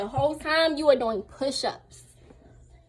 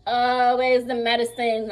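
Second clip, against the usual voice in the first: louder, irritated retold demand; mildly angry demand; 5 dB louder, slower than usual. Patient asking for her medicine, mildly angry. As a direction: retell an impatient, annoyed question. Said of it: "I'm getting angry".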